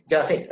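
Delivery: Graphic said as "gafic". Shown as a demonstration. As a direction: drop the R from Graphic completely. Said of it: "Don't say R".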